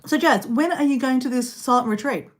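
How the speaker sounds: talking with a mouthful; mouth full. Real, not acted. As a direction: speak through a bite of food. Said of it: "I'm gonna eat with a mouthful".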